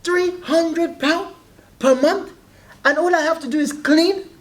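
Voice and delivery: put-on high, slow Nigerian accent. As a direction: Nigerian accent, mum amazed. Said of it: "that's a better Nigerian accent".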